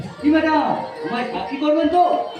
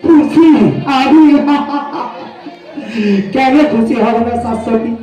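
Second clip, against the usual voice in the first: loud, overdone show of joy with laughter; strange forced laughter; 5 dB louder, slower than usual. Acted. Jobless lover answering the officer's question, laughing strangely. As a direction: insist loudly on being delighted, laughing. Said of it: "তুমি এইভাবে হাসছো কেন".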